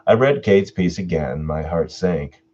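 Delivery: measured storyteller read; narrator voice. Shown as a demonstration. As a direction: slip back into the storyteller voice. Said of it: "I should be saying this in my narrator voice".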